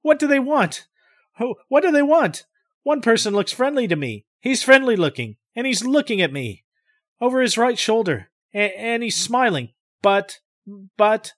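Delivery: high, disbelieving cries; bewildered pleading why; incredulity. Acted. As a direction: ask in stunned disbelief. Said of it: "Now with incredulity".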